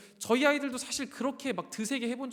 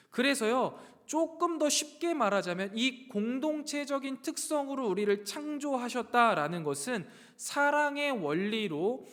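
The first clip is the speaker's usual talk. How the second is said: raised, emphatic sermon delivery; preaching; 3 semitones higher, 3 dB louder than usual. Acted. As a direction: preach it out with drawn-out key phrases. Preaches the main point. (힘 있게 강조하는 설교조)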